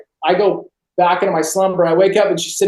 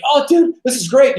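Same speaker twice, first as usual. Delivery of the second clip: tag as acted enthusiasm; 6 semitones higher than usual. Colleagues cheer his movie news.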